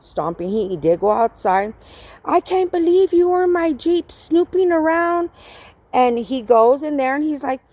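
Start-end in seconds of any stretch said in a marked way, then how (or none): 2.2-5.3 higher-pitched mock indignation; acted disbelieving blame; retold accusation. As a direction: imitate his outraged complaint, pitched up. Acts out his accusation.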